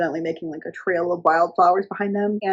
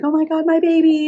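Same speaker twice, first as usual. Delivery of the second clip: high, loud gushing mother imitation; hammed-up maternal fuss; mock freaking out; 8 semitones higher, 5 dB louder than usual. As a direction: squeal it like an overwrought mother reunited with her child. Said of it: "holding her and freaking out".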